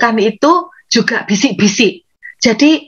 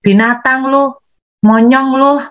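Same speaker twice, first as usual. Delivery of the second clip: a string of insults, higher and heated; mock angry insults; 4 semitones higher than usual. Shown as a demonstration. Preacher mimics an angry person cursing, heated mock anger. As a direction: rattle off insults as if losing your temper. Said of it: "saudara jangan katakan".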